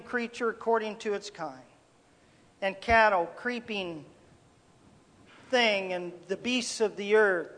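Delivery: measured, solemn Bible reading; scripture reading. Acted. Preacher reading Genesis to his congregation, solemn scripture reading. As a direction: read the verses with weight, letting each phrase land.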